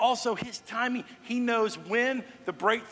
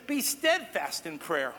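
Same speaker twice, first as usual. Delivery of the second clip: slow verse quote; 4 semitones lower, slower than usual. Shown as a demonstration. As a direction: let the verse land slowly and gently. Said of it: "is saying this".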